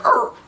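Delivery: single high mock yelp; imitated yelp. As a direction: cut in with a quick high "oh". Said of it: "he's gonna be like".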